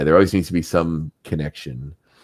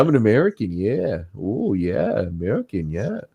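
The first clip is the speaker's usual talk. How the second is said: put-on lampoon Americans with a singsong Minnesota accent; mock Minnesota accent; 3 semitones higher than usual. Podcaster mocking Americans the way Canadians get mocked, in a hammed-up Minnesota accent. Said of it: "I just did a Minnesota accent".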